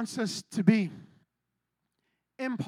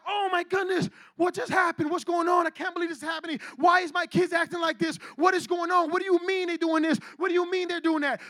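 incredulous string of questions; shocked; 2 semitones higher than usual. Acted. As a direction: act out stunned disbelief. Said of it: "that you first get shocked".

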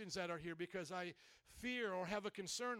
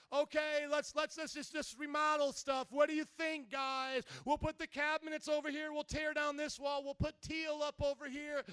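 lightly acted remodeler, pitched up; 5 semitones higher than usual. Preacher mimics a remodeler planning your house, higher remodeler act. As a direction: pitch it up as an eager decorator.

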